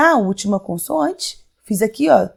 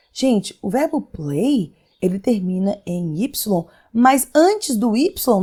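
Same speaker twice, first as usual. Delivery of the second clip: slow, careful rule explanation; slower than usual. Shown as a demonstration. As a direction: spell out the rule slowly for students. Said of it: "slow explanation of rule". (explicação bem devagar)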